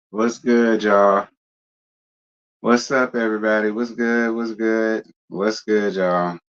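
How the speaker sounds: exhausted, worn-out, weary voice. Greeting a livestream audience at the start, exhausted, tired voice. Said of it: "If I sound exhausted, it's because I am".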